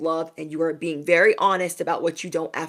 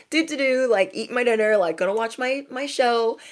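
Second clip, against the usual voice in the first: light, higher-pitched singsong; carefree play-acting; 5 semitones higher than usual. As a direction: act out pottering along obliviously, pitched up. Acting out her carefree dinner before the show.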